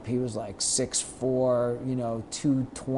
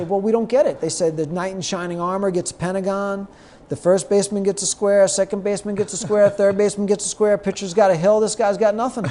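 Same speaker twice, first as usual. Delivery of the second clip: puzzled players; 7 semitones higher, 6 dB louder than usual. Retold or imitated. Players explaining bases.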